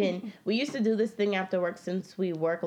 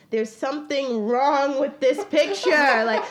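retold alarm; 5 semitones higher, 8 dB louder than usual. Retelling a chipped tooth moment.

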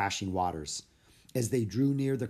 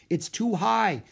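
put-on high, urgent kid voice; anxious young Jack; worried boy; 10 semitones higher, 6 dB louder, slower than usual. A narrator's reading. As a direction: Jack fretting over the cave. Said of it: "said Jack".

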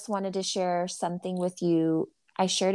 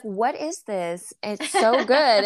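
slow, drawn-out mock wonder; imitated amazement; 2 semitones higher, 4 dB louder, slower than usual. Kids tasting mystery chocolate bread, imitated slow amazement. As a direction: stretch it out, building louder in delight.

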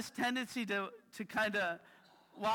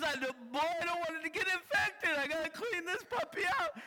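firm mom; 10 semitones higher than usual. Retold or imitated. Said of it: "And she goes".

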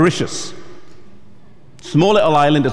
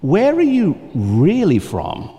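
slow, careful, loaded question; hesitant probing; slower than usual. Retold or imitated. A puzzled questioner hinting at the pastor's race, slowly. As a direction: drag it out, trying not to say it. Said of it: "they'd look back at you and be like".

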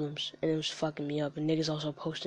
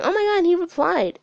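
high squealing mock fangirl, louder; gushing fan; 14 semitones higher, 8 dB louder than usual. Mocking his fans to the listener, high gushing squeal. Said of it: "they put it on their story, like".

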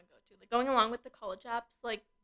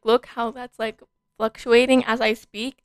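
loud, raised-voice demonstration; loud and emphatic, slowing at the end; showing mic levels; 14 dB louder, slower than usual. Shown as a demonstration. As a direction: project it to show how the level jumps. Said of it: "I'm trying to show her".

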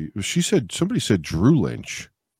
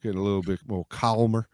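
ogre voice; 2 semitones lower than usual. Shown as a demonstration. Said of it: "I'm just talking like ogre".

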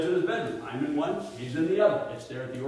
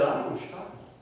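stunned whisper; 4 semitones higher, much faster than usual. Retold or imitated. Stunned by mother's revelation.

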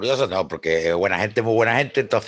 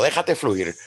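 como el psicólogo; much slower than usual. Retold or imitated. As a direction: quote it like a calm therapist. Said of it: "Como diría el psicólogo". ("Déjate fluir" suave, como un psicólogo)

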